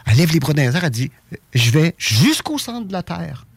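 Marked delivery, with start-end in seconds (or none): 1.5-3.4 lent, voix de petite fille émerveillée; imite-la lentement, comme une enfant; fillette rêveuse. Retold or imitated. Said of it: "elle fait comme des gestuels de fillette". (voix d'enfant lente et légère)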